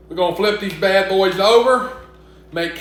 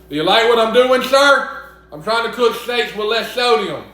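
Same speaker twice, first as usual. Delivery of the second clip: higher, louder, eager suck-up voice; eager to please; 5 semitones higher, 4 dB louder than usual. Pretend. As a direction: fish for praise from the boss. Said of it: "R F K would be so proud of me".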